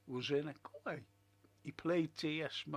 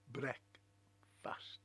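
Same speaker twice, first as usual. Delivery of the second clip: whispered reveal; 4 semitones lower, 4 dB quieter than usual. Shown as a demonstration.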